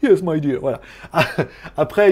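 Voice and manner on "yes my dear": mock English accent with a laugh; jokey English-accented patter. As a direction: play at an English accent, hesitantly. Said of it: "il y aurait carrément un accent".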